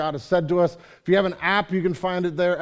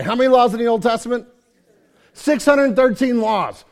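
preaching at full force; 4 semitones higher, 5 dB louder than usual. Real, not acted.

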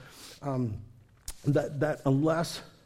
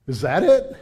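put-on unimpressed kid; 7 dB louder than usual. Ungrateful kids after presents.

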